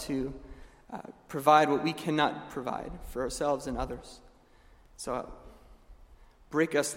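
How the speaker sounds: soft, hushed prayer voice. Acted. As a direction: pray it humbly and quietly. Closing prayer.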